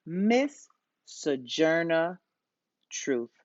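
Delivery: slow, drawn-out name reveal, falling on Truth; dramatic announcement. Acted. Teacher to class, unveiling the woman of the day, slow and dramatic. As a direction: stretch out the name like a big reveal.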